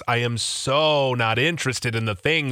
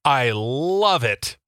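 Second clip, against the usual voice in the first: fake gratitude; 3 semitones higher, slower than usual. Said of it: "telling a gift giver".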